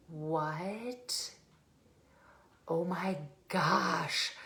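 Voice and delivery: stunned, near tears, drawn out; retold tearful shock. Client hears trainer's projection, acting tearfully stunned. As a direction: act out tears welling up, very slowly. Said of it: "I'm literally crying".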